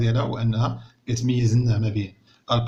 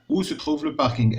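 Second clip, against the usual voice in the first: slow reading aloud; 4 semitones higher, much slower than usual. Shown as a demonstration. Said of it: "أين يوجد".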